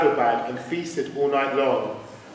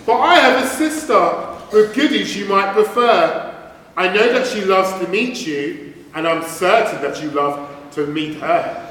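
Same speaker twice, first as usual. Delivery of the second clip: sly duck voice; 3 semitones higher, 4 dB louder than usual. Acted. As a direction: lure him in with sweet promises. Duck's tempting offer.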